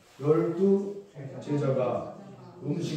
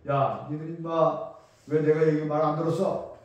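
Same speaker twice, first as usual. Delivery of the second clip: mock harsh scolding; 6 dB louder than usual. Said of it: "그렇게 한 게 아니란 말이에요".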